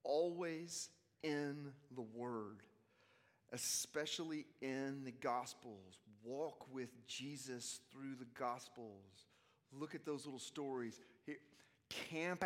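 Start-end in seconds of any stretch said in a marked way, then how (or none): 0.0-9.2 slow and deliberate. Acted. Slow emphatic preaching.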